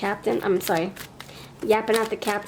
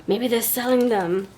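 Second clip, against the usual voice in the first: gasp of realization; 3 semitones higher than usual. Real, not acted.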